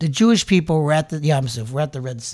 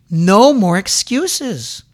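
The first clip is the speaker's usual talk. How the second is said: louder, slow and firm "No more excuses"; firm demand; 7 dB louder, much slower than usual. Real, not acted. Preacher demands the congregation stop excusing themselves, firm and slow. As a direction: lay down "No more excuses" slowly and firmly. Preacher repeats phrase higher second time.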